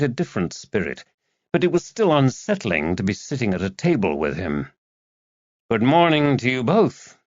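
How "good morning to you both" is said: put-on gentle New England accent, a bit louder; soft-spoken New Englander. A narrator's reading. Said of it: "in his soft New England accent".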